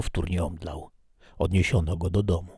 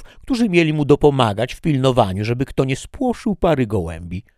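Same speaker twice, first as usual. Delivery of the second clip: loud, higher, indignant insistence; angry stranger; 5 semitones higher, 6 dB louder than usual. Acted. The stranger insisting to Toledo that he will get in, angrily. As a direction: demand entry like a jealous fiancé.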